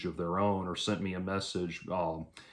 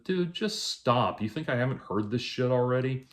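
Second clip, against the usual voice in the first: mock-exasperated, higher-pitched comeback; exasperated reply; 4 semitones higher than usual. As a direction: act out having had enough. Quotes own fed-up reply.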